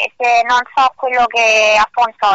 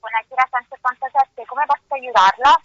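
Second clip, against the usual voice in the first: polite call-center greeting; customer service voice; 4 dB quieter than usual. Real, not acted. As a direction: answer like a phone operator. Call center operator answering.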